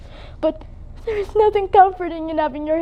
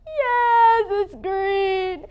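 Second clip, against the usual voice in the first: tearful; 4 dB quieter, much slower than usual. Acted. Dyed her hair green.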